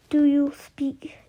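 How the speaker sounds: put-on slow, hushed Scottish accent. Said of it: "the man asked in a Scottish accent".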